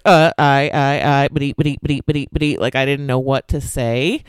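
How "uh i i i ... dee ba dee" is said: flustered stammer. Retold or imitated. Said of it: "And I was just like".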